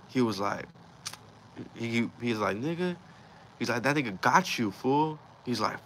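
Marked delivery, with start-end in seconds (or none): 2.6-3.0 high-pitched indignant outburst; retold anger. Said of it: "he got hella mad". 3.8-5.2 higher-pitched, mildly indignant; retold anger. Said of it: "he got hella mad".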